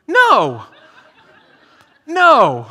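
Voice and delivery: loud mock panic through a laugh. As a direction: laugh and shout no at the news. Reacting to pilot's warning.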